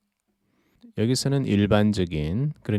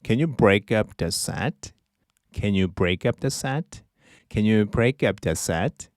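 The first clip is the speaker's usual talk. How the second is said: slow model phrase; much slower than usual. Shown as a demonstration. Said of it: "낱개로 팝니까".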